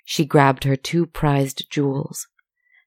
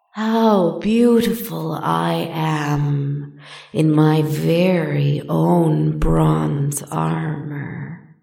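slow, admiring serpent purr; much slower than usual. Acted. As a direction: purr with vain delight, slowly. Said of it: "she purred admiringly".

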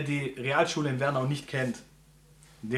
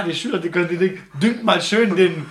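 cheerful teacher; 3 semitones higher, 8 dB louder than usual. Retold or imitated. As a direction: hand out gardening orders cheerily. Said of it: "Und er so".

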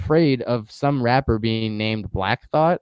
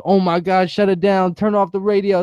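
higher-pitched mock amazement; mimicked hype outburst; 7 semitones higher than usual. Co-host mimics the radio host reacting to a freestyle, mock hype. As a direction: imitate an overexcited host reacting.

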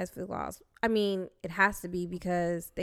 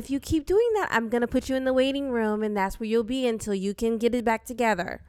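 gently scolding princess teacher; cartoon princess; 3 semitones higher, 4 dB louder than usual. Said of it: "our teacher sounds like a princess".

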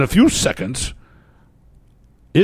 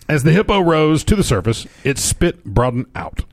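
higher, livelier reread of the line; fun storyteller voice; 4 semitones higher than usual. Shown as a demonstration. Cohost rereading a news line in a fun voice. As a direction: give the hippo line some showman flair. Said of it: "but the voice was so fun".

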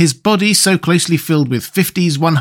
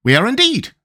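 higher, joyful insect voice; Wogglebug, pleased; 9 semitones higher than usual. Acted. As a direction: agree with proud relief. Wogglebug character voice.

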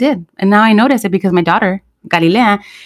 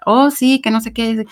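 higher-pitched cantadita, northern Mexican lilt; singsong Sinaloan accent; 4 semitones higher than usual. Shown as a demonstration. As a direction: show off the singsong Sinaloan tune. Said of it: "así, lo, la cantadita".

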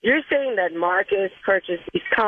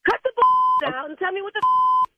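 higher, heated demands; angry confrontation; 5 semitones higher, slower than usual. Real, not acted. Wife demanding the truth from her husband at the barbershop, heated and angry. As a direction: push him hard to come clean.

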